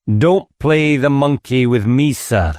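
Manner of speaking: lightly voiced inspector scolding; a hint of a detective losing patience; stern inspector. Inspector rebukes squire.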